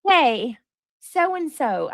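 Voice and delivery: mock doting mom. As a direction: sweetly summon the kids. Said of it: "we gotta do the baby voice".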